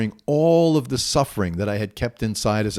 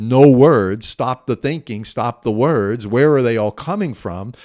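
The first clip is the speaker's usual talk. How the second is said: commanding inner voice; 5 dB louder than usual. Retold or imitated. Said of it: "this voice inside said".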